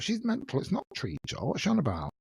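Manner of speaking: pitched high, scoffing in disbelief; mock outrage. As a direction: she can't be serious. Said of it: "I thought".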